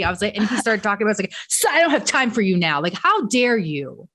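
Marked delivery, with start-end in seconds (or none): 1.5-4.1 re-enacted indignant rant, somewhat higher; retold exasperated telling-off; losing it. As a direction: scold in outrage, leaning hard on key words. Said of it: "I was just, like, losing".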